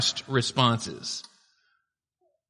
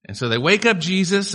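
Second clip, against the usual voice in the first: ordinary delivery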